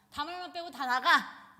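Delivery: loud barked order to leave; commanding shout. Retold or imitated. Amnon ordering all but Tamar out, loud command. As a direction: drive everyone out with a loud command.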